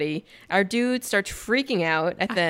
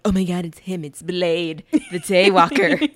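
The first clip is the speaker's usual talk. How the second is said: awed clubbers; 6 dB louder than usual. Retold or imitated. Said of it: "All the clubbers like".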